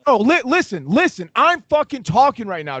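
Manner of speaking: fake-furious cohost cutting in; mock angry outburst. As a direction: play it worked up and indignant. Mock argument, getting worked up.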